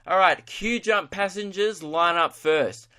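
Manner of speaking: lightly mimicked boarding call, starting high and slowing; airline boarding announcer. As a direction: imitate gate staff calling passengers up. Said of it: "like, they go".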